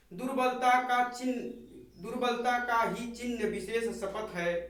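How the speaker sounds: measured, solemn verse recital; poem recitation. Acted. Teacher reciting the poem to the class, solemn recital.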